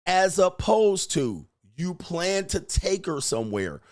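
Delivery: ordinary delivery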